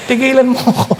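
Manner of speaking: laughing, stop it; preacher mocks a girl rejecting an empty suitor, laughing; laughing brush-off. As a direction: wave him off with a laugh.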